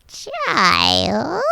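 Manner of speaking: put-on high creaky hag calling "Child"; witch voice. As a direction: summon them like an old witch. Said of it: "Wait, who is that?".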